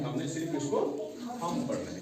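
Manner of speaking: थंब said as thum with a silent B; right pronunciation. Shown as a demonstration. Teacher gives the class the correct reading of थंब. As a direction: end थंब on the M, no B. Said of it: "बी की आवाज यहाँ नहीं निकालनी है".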